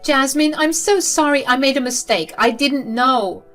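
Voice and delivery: high, pleading fake apology, slowing at the end. Mother-in-law fake apologizing to Jasmine, high and pleading. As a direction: plead with false remorse.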